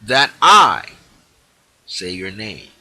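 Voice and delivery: loud authoritative decree on "shall be"; proclaiming. Shown as a demonstration. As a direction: declare it without a doubt. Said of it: "declare now and proclaim this".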